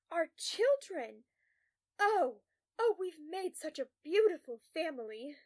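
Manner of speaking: loud, high, swooning delight; overjoyed. A narrator's reading. Patient overjoyed seeing imagined children.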